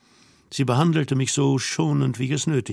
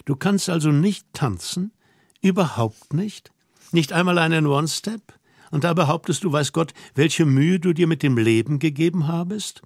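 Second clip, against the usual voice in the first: higher, teasing female voice; lightly voiced scolding young woman; 3 semitones higher than usual. Girl scolds man who cannot dance, mock-stern and incredulous. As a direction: take him to task in a lightly raised girl's voice.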